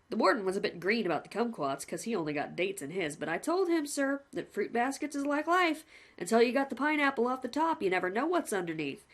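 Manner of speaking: lightly voiced cheerful jailer; a hint of a chummy warden; a plain-spoken warder reporting to the condemned man, lightly voiced; polite prison warden. Warden speaks.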